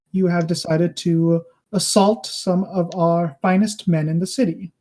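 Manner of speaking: measured, formal demand with a hint of restraint; lightly voiced ruler holding back; emotions in check. Ruler demands the ambassadors explain the assault, emotions in check. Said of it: "his emotions in check".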